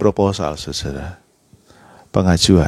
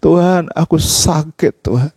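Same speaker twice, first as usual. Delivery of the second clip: tearful plea; 5 semitones higher than usual. Retold or imitated. Preacher retelling his tearful prayer to God, mild plaintive plea. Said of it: "Saya nangis sama Tuhan".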